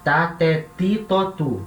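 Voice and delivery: "Tá, té, ti, tó, tu" each with a hard T, ti never softened to chi; a clean dry T in "ti", not "tchi"; slow Greek T drill with a hard "ti"; Greek T syllables. Shown as a demonstration. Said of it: "Nunca vai ter som de ti".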